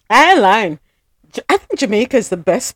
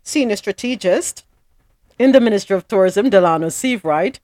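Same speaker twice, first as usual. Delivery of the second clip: news read. Acted. Reads news item.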